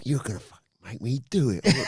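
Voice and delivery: put-on cockney accent. Wrestler warning his rival he'll do it, in mock cockney. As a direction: play the threat in mock cockney. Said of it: "he's suddenly gone cockney".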